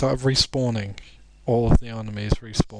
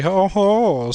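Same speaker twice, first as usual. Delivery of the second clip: mock chuckle; 7 semitones higher, 6 dB louder than usual. Laughing at his own pun.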